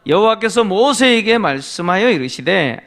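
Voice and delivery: normal talking voice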